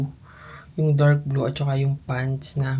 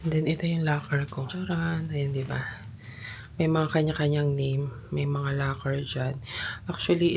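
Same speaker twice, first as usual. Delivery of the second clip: hushed, quiet voice in a locker room; whispering while hiding; 6 dB quieter than usual. Real, not acted. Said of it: "Bumubulong kasi nandito ako sa locker room".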